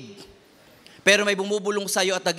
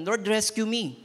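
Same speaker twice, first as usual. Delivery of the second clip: mock helpless plea; 4 semitones higher than usual. Acts out trapped person praying passively.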